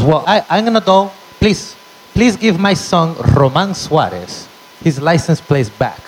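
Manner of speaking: mom trying to be polite; mock pleading. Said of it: "she goes".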